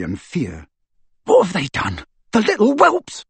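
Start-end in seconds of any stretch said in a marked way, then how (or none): 1.3-3.2 high, rising furious scream. Acted. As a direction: howl over his sister. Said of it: "he screamed".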